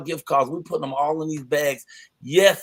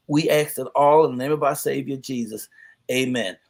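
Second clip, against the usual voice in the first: prayer. Acted. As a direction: pray it out, calm and reverent. Leads a closing prayer.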